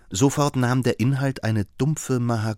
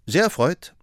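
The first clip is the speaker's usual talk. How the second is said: hearty; 8 semitones higher, 3 dB louder than usual. A narrator's reading. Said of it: "sagte er herzlich".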